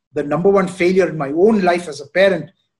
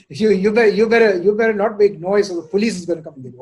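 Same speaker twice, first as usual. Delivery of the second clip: louder, faster mock threat to a child; mock parental warning; 3 semitones higher, 4 dB louder than usual. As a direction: scare the kid, half joking. Parent threatening kids with police.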